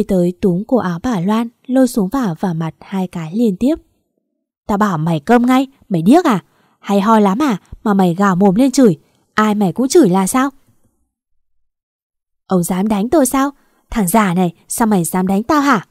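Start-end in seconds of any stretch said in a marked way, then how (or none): 4.7-10.5 loud, angry rebuke; pent-up anger. Acted. Husband orders shouting wife to shut up, pent-up anger. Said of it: "Cơn tức giận dồn nén". 12.5-15.9 outraged challenge, only mildly raised; mild mock yell. Wife protests being hit by husband, mild yell. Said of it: "Bà ta gào lên".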